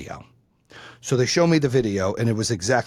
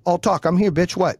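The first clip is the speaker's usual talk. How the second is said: higher-pitched, retold angry dare; pissed off; 4 semitones higher than usual. Parent facing down the other dad, pissed off. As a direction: act out squaring up to him. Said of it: "Be like, I was pissed".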